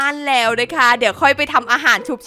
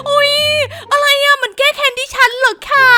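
much higher, loud incredulous squeal; stunned disbelief; 12 semitones higher, 3 dB louder than usual. Real, not acted. Streamer squeals at the game taking revenge. Game turns against her.

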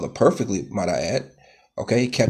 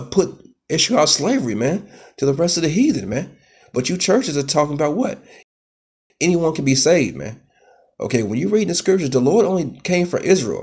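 heated preaching; 5 semitones higher, 3 dB louder than usual. Real, not acted. Preacher firing up at the churches, loud and raised. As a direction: voice climbing higher and louder, fired up.

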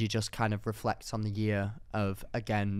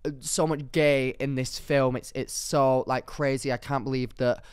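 mock homophobe. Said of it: "homophobic people will be like".

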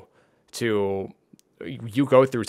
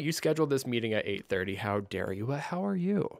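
mock grumpy rant; 7 semitones higher than usual. Shown as a demonstration. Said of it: "or you can be like".

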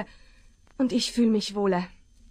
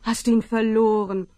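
coaxing a dog; 2 semitones higher than usual. Acted. Woman coaxing a stray dog.

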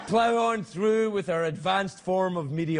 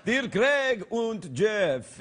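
put-on German accent; 2 semitones higher, much slower than usual. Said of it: "It's from German Dracula".

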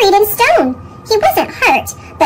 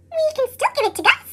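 a hint of a higher mouse voice; lightly squeaky mouse; 9 semitones higher, 6 dB quieter, faster than usual. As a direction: comfort a sad friend lightly. Squeak consoling Pip.

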